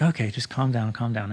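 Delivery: wife soothing her panicked husband, softly; calming wife. Retold or imitated. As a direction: settle him down gently. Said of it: "she's like".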